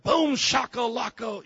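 loud, high, drawn-out hype call; hyped catchphrase shout. Shown as a demonstration. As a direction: shout it slowly like a rallying cry. Demonstrates hype catchphrase, then repeats plainly.

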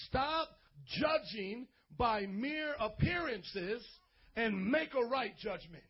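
very slow, weighty verse reading; solemn scripture reading. Shown as a demonstration. Pastor reading the key verse slowly to the church. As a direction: lay each word down deliberately.

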